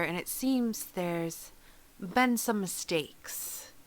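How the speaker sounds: slow, whispered hint; hushed. Acted. Zalora hinting at the Kenku's mistakes, whispered. Player hints darkly at mistakes.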